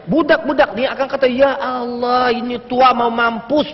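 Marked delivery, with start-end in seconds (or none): 1.3-3.7 slow, stretched-out exasperated groaning words; mock angry retort. Youngster answers back to a scolding elder, drawn-out mock exasperation. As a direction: imitate a youngster cursing back. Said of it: "Dia marah balik orang tua".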